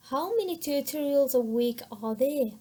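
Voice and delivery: "How" stressed with a pitch peak, falling at the end; teacher's model question with "How" stressed. Shown as a demonstration. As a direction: lean on "How", let "there" fall. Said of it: "سترێسمان لەسەر how".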